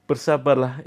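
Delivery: said through a laugh. Real, not acted. Coach repeating the short answer, laughing. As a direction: laugh at your own curt advice.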